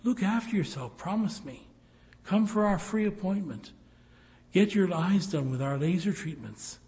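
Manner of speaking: a hint of a coaxing radio ad voice; mock ad spokeswoman. Preacher mimicking eye clinic radio ad, lightly mocking. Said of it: "she's always telling us".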